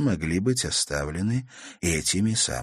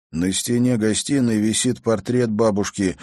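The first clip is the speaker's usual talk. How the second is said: through gritted teeth; 3 semitones higher than usual. Acted. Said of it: "процедил сквозь зубы парень".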